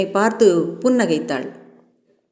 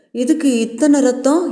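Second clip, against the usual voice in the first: alarmed question; 4 semitones higher than usual. Acted. Alarmed at how much blood is drawn.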